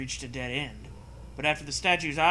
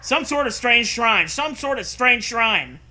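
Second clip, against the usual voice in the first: high, loud careful repeat; tongue twister; 8 semitones higher, 7 dB louder, slower than usual. Shown as a demonstration. Narrator trying the tongue twister out loud. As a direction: drill the twister slowly and loudly. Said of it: "say that five times really fast".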